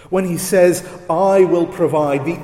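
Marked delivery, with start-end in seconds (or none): 1.1-2.3 I said firmly with weight; stress on I. Shown as a demonstration. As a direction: lean on the word "I" in "I will provide". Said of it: "is emphatic".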